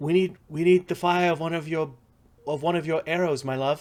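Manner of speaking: high-pitched, loud, far-carrying yell. Voicing an elf cleric calling back to another elf: yelling. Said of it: "she yells back in Elven".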